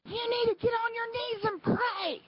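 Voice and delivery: high-pitched mock scolding; retold yelling. Woman who kept on and on at me, high mock yell. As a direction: imitate her ordering, held high all through. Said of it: "she started screaming and yelling at me".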